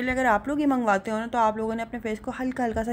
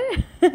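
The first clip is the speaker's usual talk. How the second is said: bright laugh; 9 semitones higher, 6 dB louder than usual. Real, not acted. Laughs at husband.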